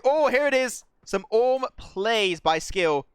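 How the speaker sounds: high, loud burst of hype; thrilled esports caster shout; excited play-by-play. Real, not acted. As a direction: hail the big play, stretching the words. Caster hails a sudden big play.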